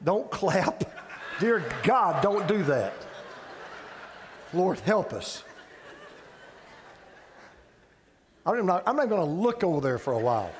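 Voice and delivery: chuckling as he scolds the crowd; talking through his own laughter; laughing through it. Real, not acted. Pastor laughing at the clapping congregation, laughing.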